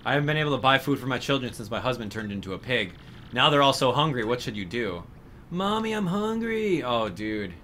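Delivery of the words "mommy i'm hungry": put-on high, slow, whiny little kid; child voice. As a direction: plead like a hungry small child. Voicing a hungry child NPC.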